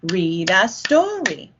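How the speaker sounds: slow, even Read a story; words said to the rhythm. Shown as a demonstration. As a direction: tap out each syllable. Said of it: "Now say the words".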